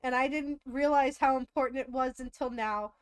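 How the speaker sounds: mock sentimental. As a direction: lay the gratitude on thick. Mock sappy thanks continues.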